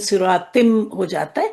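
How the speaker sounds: سراتم with the tanween blended into م; merged into meem. Shown as a demonstration. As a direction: say سراتم, nunation merging into the meem. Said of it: "میم میں اس کو ملاتے ہیں". (تنوین کو میم میں ملا کر سراتم)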